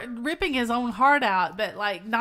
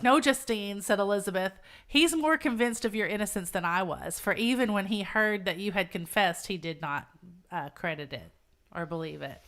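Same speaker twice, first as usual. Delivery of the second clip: earnest reassurance read from a novel; measured literary reading; story narration; 4 semitones lower than usual. A narrator's reading.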